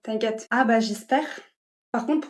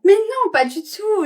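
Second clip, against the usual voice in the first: fake sweet denial; 9 semitones higher, 6 dB louder, slower than usual. Roommate faking friendliness to guest.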